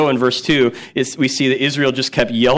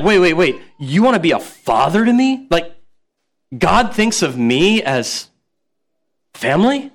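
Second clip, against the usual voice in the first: mock astonishment; 2 semitones higher than usual. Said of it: "this would have been shocking".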